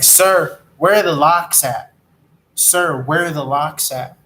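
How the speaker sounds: mock-demanding, punch the first call; lightly acted heated customer; retold irritated demand. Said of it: "getting all heated and mad".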